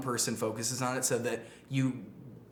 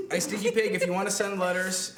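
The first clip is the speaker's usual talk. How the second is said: called out a bit louder and higher to Stinky Pig; calling out to a viewer; 6 semitones higher, 3 dB louder than usual. Real, not acted. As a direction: hail one viewer by name, brighter and louder. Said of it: "and to anybody else".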